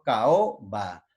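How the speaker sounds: "Caoba" broken as ca-o, then ba; vowels separated. Shown as a demonstration. Teacher repeating the hiatus, "Caoba" with separated vowels. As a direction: give a and o their own beats in "Caoba". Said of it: "se separa".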